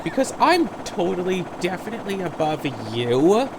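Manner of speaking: hammed-up disdain for a lesser opponent; mock superior. Opponent dismissing the likes of you, mock superior. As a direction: imitate someone too grand to argue. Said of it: "pretends that they are so darn well above it all".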